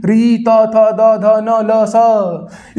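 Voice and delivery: emphatic letter drill; emphatic listing. Shown as a demonstration. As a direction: drive each letter home. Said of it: "किसका उच्चारण होगा जी?".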